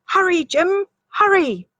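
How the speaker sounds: put-on high, eager girl's voice; a small girl pointing something out; high excited child voice; little girl voice. Rose calls to the eagle.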